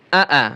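আ, আ said thin and firm; thin, firm alif. Shown as a demonstration. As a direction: say a thin but firm open vowel on "আ, আ". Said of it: "আলিফটা পাতলা করে উচ্চারণ করবেন এবং শক্ত করে".

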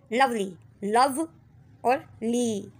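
लवली broken slowly into लव and ली; syllable split. Shown as a demonstration. Teacher reading to class, slow syllable split. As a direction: pull लवली apart into लव then ली. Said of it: "इधर हम पढ़ रहे हैं two syllable word".

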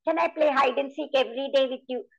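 high eager mouse voice; a small mouse asking a favour, high and bright; little mouse. Shown as a demonstration. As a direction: chirp it up like a hopeful tiny mouse. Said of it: "So I changed the voice like this".

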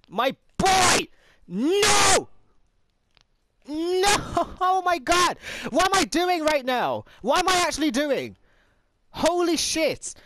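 high, loud frantic cries; panicked shrieks. Real, not acted. Gamer shrieking as the character slips away. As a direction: shriek as the fall begins. Character falling again, screaming.

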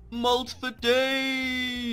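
hammed-up slow drunk slur; mock drunk, dragging the words; fake drunk. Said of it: "your little funny drunk voice".

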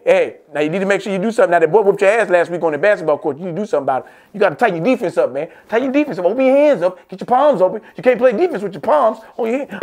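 hammed-up fatherly coaching; coaching dad. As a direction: drill him on defense like a coach. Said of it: "Uh, hey".

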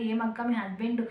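gentle, unhurried model question, slowing on లేరా, ఉన్నారా; polite asking. Shown as a demonstration. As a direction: show the viewers how to ask kindly. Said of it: "నార్మల్గా అడగండి".

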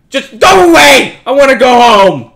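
high, loud wailing plea; pleading yell; whiny shout. Real, not acted. Pleading with ghost girl.

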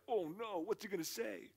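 a touch of comic apprehension, voice lifted; mild mock dread. Host dreads what the invited guest will share, mock worry. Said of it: "he looked at me like".

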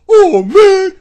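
loud mock whine of disappointment; hammed-up sulky groan; dejected wrestler. Wrestler sulking after being thrown out, mock whine. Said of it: "Jackson Riker's like".

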